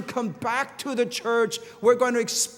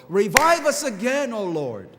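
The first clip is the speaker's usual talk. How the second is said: heartfelt cry; 4 dB louder than usual. Acted. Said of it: "our heartfelt cry".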